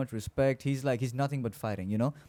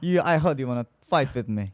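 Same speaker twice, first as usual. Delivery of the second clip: bad Russian accent; 5 dB louder than usual. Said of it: "trying a really bad Russian accent".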